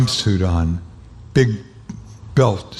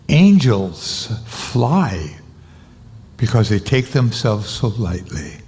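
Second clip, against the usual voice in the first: tender quote. Retold or imitated. Quoting a singer's wisdom, slowly.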